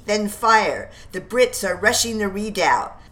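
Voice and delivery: half-shouted order; yelling orders. Acted. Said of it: "Prescott yells".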